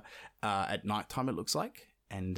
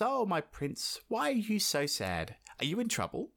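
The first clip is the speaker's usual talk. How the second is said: frog's voice; 9 semitones higher than usual. Retold or imitated. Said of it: "and says".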